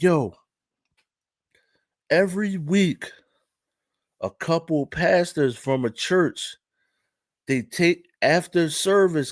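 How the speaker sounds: slow, measured imitation of an African accent. Parking lot guy reporting on pastors, slow African accent. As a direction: tell it slowly with an African accent. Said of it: "Imma do the accent".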